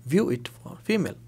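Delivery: slow teaching read. Shown as a demonstration. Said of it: "slow translation for learners".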